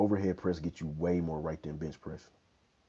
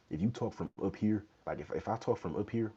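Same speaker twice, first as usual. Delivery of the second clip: pitched up, talking from the throat; high head voice; 4 semitones higher than usual. Shown as a demonstration. Showing viewers a high voice from up here, higher. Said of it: "my voice is high".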